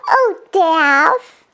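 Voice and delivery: high laugh into a fond call. Acted. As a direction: giggle then tease her name. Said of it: "said their usual".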